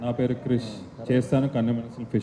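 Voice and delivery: understated, hushed dialogue recital; quiet recitation. Shown as a demonstration. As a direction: say the film line quietly, almost to yourself. Dialogue recited on request, first take.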